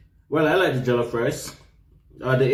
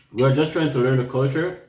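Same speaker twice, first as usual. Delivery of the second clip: mouth full. Real, not acted. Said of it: "Mind your tongue. That bad man is to talk with food in the mouth".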